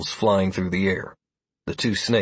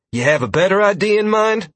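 impatient, higher and louder; sharp impatient question; 10 semitones higher, 5 dB louder than usual. A narrator's reading. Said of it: "Freya asked impatiently".

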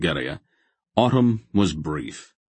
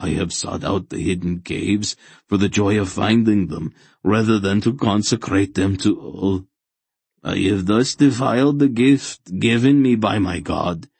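guilt-ridden fanatic; 3 semitones higher, 4 dB louder than usual. Acted. Fanatic confessing he defiled his god's gift, mounting fervour. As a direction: work up a zealot's self-accusation.

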